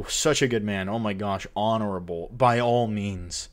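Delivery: dry mock praise; sarcastic. Real, not acted. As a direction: say it with heavy sarcasm. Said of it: "mock praise of the prankster".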